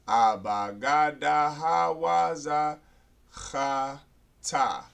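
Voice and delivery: slow, level string of long syllables; drawn-out recitation. Shown as a demonstration. Teacher restarting the alphabet review, slow drawn-out recitation. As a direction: chant out each letter evenly.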